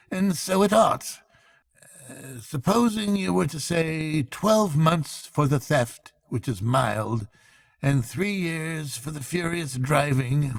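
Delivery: a pedantic clerk, eager to please the bench; fussy court clerk. A narrator's reading. The clerk voiced in story.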